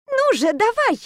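high, urgent mock growl. A narrator's reading. Heroine urges her lover on, high heated growl. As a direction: push him, half-wild with rage. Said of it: "прорычала".

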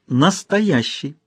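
протяжный высокий выкрик; бросить слово с издёвкой; крик. Acted. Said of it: "закричала княгиня". (княгиня кричит протяжно)

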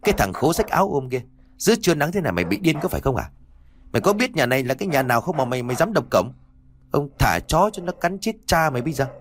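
fast, scornful scolding; scolding shout. Acted. Servant scolding the ragged boy at the gate, fast and scornful. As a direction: tear into the beggar, fast. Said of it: "rồi quát".

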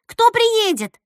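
high, loud, insistent questions; pestering eagerly. Acted. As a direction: nag for an answer, pitch up. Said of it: "пристала она".

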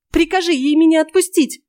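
put-on old woman begs to be released, wailing; wailed. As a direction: howl the plea. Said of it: "взвыла старуха".

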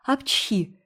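a quick voiced sneeze. A narrator's reading. Anne sneezes while scolding Hazel, a quick sneeze. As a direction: Anne sneezes mid-reprimand. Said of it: "и чихнула".

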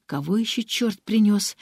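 ordinary delivery

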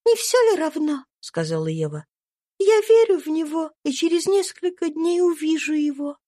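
put-on kind little girl comforting a friend; gentle young girl. A narrator's reading. Little Eva gives Topsy a lock of hair, high and kind.

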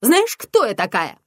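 loud, slow shouted question; shouting. Acted. Mother shouting at her daughter in a fight. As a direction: hurl it at her slowly. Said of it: "выкрикнула она".

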